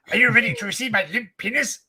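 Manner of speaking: mock-theatrical mimicry of an indignant man; imitated meme orator. Retelling the arrested man's rant for laughs, hammed-up imitation. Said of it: "He's like, he's like".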